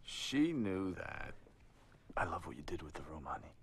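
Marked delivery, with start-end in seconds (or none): 2.1-3.5 hushed sarcastic whisper about the room; whispered aside. Acted. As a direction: breathe it out as a catty aside.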